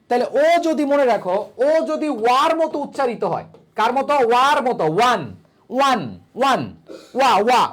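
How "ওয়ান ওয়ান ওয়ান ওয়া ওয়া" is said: "ওয়ান" opening on a clear "wa"; teacher's demo of "ওয়া" starting "ওয়ান"; "wa" sound demo. Shown as a demonstration. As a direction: say "ওয়ান", then isolate "ওয়া" as a w-glide. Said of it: "ওয়ার মতো উচ্চারিত হচ্ছে".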